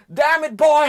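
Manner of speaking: loud, high yell of pain; hammed-up trapped yell; pained shout. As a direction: cry out with an arm trapped. Trapped brother crying out.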